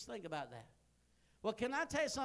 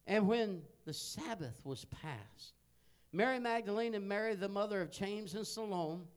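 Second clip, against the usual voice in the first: scripture reading; 4 dB louder than usual. Acted. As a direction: read the verse out with weight. Reads scripture aloud.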